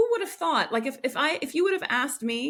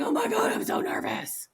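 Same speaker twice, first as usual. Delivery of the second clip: nervous squeak; 12 semitones higher than usual. Retold or imitated. Acting nervous contrast.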